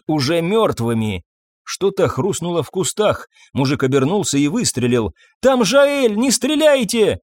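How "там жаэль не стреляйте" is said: high desperate scream; panicked cry, much higher. A narrator's reading. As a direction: shout to stop the shooting. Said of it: "закричала Мария".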